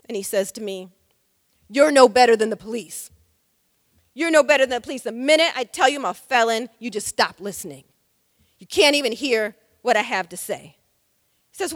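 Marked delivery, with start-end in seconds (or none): 1.7-10.8 louder, retold furious accusation; enraged. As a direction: throw the accusation back, louder and bitter. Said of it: "he becomes enraged".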